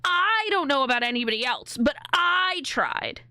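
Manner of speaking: slow, smug hand-washing voice, stress on "I"; mock self-excuse. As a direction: drawl out the excuse like washing your hands of it.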